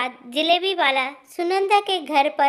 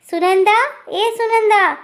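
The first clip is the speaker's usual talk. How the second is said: calling out; 6 semitones higher than usual. Acted. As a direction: summon the daughter-in-law from inside. Mother-in-law calling daughter-in-law loudly. (ज़ोर से पुकारना)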